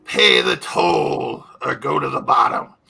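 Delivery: big booming threat from the sea. Acted. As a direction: boom it out like a sea giant. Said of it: "booming voice".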